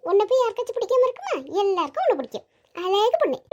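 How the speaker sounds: playful, swooping cooing; fond, lilting baby-talk; doting mother. Acted. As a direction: coo admiringly over a child.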